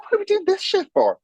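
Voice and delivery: high, incredulous outburst; exasperated. Retold or imitated. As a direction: throw up your hands in disbelief. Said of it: "We're like".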